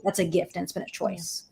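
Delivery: real, softly choked up, close to tears; tearing up. Real, not acted. Grateful granddaughter speaking of her family's work, tearing up. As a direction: let the words catch as tears come. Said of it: "I don't know why I'm tearing up".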